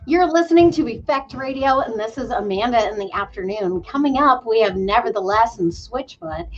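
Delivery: light radio DJ announcer voice; a hint of a radio host intro. Shown as a demonstration. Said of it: "give us a little D J voice".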